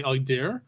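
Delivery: "idea" ending in a strong R; strong southern R. Shown as a demonstration. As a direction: say "idea" as "idear". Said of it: "make fun of the way that I say it".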